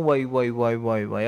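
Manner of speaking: low, dropping wail of dismay; lamenting groan. Retold or imitated. Believer panics when tested. (יללה נמוכה ודועכת)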